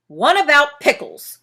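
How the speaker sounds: loud, bossy demand; commanding. Acted. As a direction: Bear orders a pickle book, loud command. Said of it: "commanded Bear".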